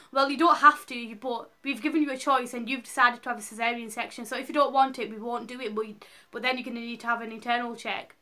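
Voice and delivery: a touch of a curt nurse laying down terms; lightly imitating a brusque nurse; mock abrupt nurse. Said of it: "she was really abrupt".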